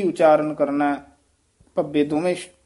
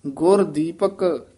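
ਗੁਰ ਦੀਪਕ slowly, brief hold; short stop after ਦੀਪਕ; short pause after dipak; slower than usual. Shown as a demonstration. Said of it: "ਇੱਥੇ ਥੋੜ੍ਹਾ ਜਿਹਾ ਠਹਿਰਾ ਦੇ ਕੇ".

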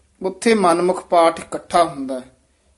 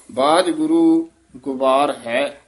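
slow, with a stop after ਬਾਜ ਗੁਰੂ; slow read, paused at ਗੁਰੂ; pause after ਬਾਜ ਗੁਰੂ; 2 semitones lower, slower than usual. Shown as a demonstration. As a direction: hold a beat after ਗੁਰੂ. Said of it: "ਇੱਥੇ ਠਮਕ ਲਾ ਦੇਣੀ ਹੈ".

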